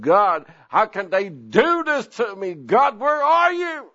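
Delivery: anguished plea, rising high and slow on "where are you"; a hurt cry to God from the car. Retold or imitated. Preacher crying in the car after the vote, high anguished plea. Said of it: "I said".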